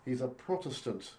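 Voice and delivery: bad stage Irish accent. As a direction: ham up an Irish lilt. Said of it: "do not do good, uh, Irish accents".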